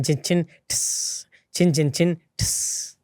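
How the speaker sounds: rhythmic count with a soft, voiceless "ठिस". Shown as a demonstration. Singer demonstrates his music to interviewer, soft "ठिस". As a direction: chant the beat and soften the "ठिस". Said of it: "वो soft किया".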